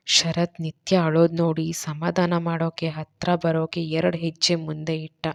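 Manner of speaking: ordinary delivery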